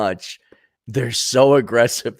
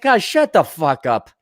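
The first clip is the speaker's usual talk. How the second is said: mock fed-up outburst, slower; loud, drawn-out shut up, hammed-up; exasperated snap; 6 semitones higher, 5 dB louder, slower than usual. Comic voicing a fed-up viewer with a mock angry outburst. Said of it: "It's like".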